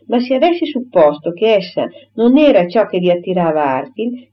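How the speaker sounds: a hint of a protesting heroine, animated; lightly voiced indignant Emma. Emma tells the suitor he misread her, mildly indignant. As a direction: rebut him with mild indignation.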